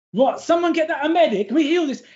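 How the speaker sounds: high, hurried call for help; rising, flustered club owner voice; alarmed proprietor. Acted. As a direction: call out urgently for a medic. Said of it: "looks over and goes".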